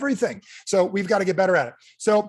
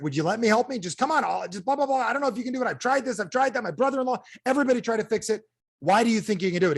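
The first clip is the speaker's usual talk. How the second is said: whiny doubter; 7 semitones higher than usual. Retold or imitated. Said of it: "He's like".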